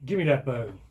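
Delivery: loud angry shout at the cat; angry scream. A narrator's reading. Owner yelling at the cat over a stolen bone, angry shout. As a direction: yell at the cat to drop the bone. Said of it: "I screamed".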